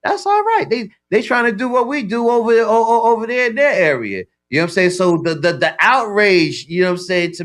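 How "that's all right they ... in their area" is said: amused impression. Retold own reaction to foreign rappers.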